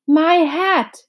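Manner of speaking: hammed-up outrage; indignant shout. A narrator's reading. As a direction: bellow over the lost hat. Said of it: "shouted the bug".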